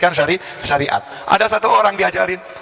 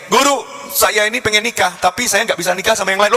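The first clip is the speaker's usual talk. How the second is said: higher-pitched pupil's earnest appeal; pleading pupil; 4 semitones higher than usual. Retold or imitated. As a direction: appeal to your teacher, pitched up. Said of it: "si murid ini ngomong ke kiainya".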